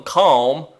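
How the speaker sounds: Calm with a flat Midwestern a, rising; Midwestern accent. Shown as a demonstration. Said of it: "that was a Midwestern accent moment".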